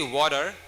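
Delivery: "water" with the T softened into a D; American "water". Shown as a demonstration. Teacher showing students the American version, "water" with a D sound. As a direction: say "water" the lazy American way, like "wader". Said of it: "That's American".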